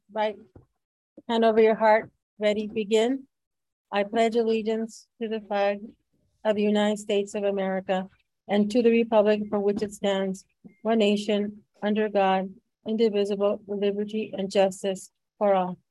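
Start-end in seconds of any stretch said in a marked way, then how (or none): 3.9-15.8 steady, even group recitation; pledge recitation. Real, not acted. Board chair leading the pledge, steady recitation. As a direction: recite it at a measured chant.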